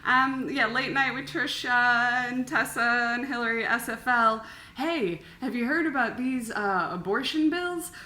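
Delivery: high, loud late-night host; stand-up delivery. Shown as a demonstration. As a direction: work the crowd, comic style. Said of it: "Deliver it like you're, like, this is your joke".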